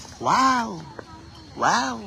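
high, amazed wow like a crowd reacting; mock amazed wow. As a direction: play the fans gasping wow. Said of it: "พี่น้องสิฮ้องว่า". (ว้าว เสียงสูงแบบตื่นตะลึง)

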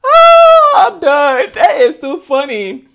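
very high, loud whoop, then winding down; whoop, overcome with amusement; real hilarity. Real, not acted. Overcome by own laughter.

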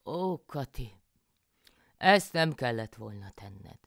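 loud, slow reproach of a foolish wife; mildly exasperated country husband; husband János. A narrator's reading. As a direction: drag out the scolding, dismayed.

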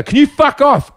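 high, rattled retort; nervous snap. Retold or imitated. Woman repeating herself to the man following her, high nervous outburst. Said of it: "she's really nervous now".

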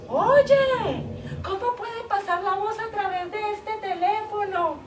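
high, loud, laughing mimic of a friend; imitating Ivonne. Woman mimicking her friend Ivonne for her lover, laughing. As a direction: play the silly friend's wonder with a laugh. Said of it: "mi amiga Ivonne que se preguntaba".

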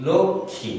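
লক্ষ্মী said lokkhĩ, k plus kh, nasal i; লক্ষ্মী with no m, a nasal ending; correct pronunciation. Shown as a demonstration. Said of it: "উচ্চারণটি হবে".

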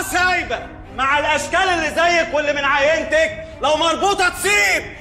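yelling insults back; officer shouts at the woman in the station; angry shout. Acted. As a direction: shout her down with contempt.

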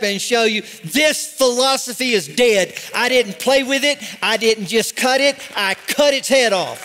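forceful sermon with punched key words; fired-up preaching. Real, not acted. Preacher rallying the church against false philosophies, fired-up preaching. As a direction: preach it like a battle charge.

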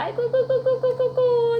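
high wailing aigo of a defeated devil; 사탄의 울부짖음. Acted. 사탄이 세 번째로 짐. (패배한 사탄처럼 높게 우는 아이고)

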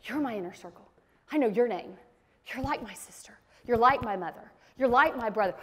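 soft, low and tender, almost whispered; tender reassurance. Retold or imitated. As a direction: draw them in close and softly. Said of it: "he's going".

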